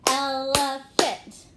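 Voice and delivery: "Elephant" slow and loud, one beat per syllable; clapped-out syllables. Shown as a demonstration. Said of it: "One more time".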